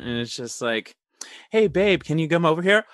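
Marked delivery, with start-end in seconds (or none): 1.5-2.8 mock American accent. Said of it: "they try to play that he was American".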